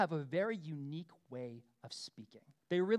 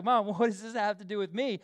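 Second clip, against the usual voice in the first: laughing retort. Retold or imitated. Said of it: "he knows what his mom's up to".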